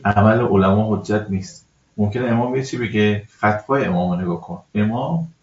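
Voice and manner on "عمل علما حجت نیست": عمل علما حجت نیست said slowly, each word weighted; slow emphatic rule. Shown as a demonstration. Cleric correcting a questioner, slow and emphatic. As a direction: lay down the rule deliberately. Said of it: "ببینید،".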